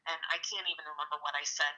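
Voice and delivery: ordinary talk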